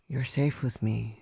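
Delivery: reassuring whisper. Acted. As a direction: whisper the promise of safety. Reassuring master.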